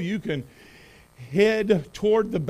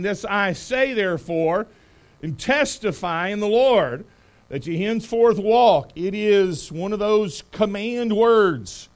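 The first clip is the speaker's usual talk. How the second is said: preaching at full force. Acted. Preacher reads Scripture with force.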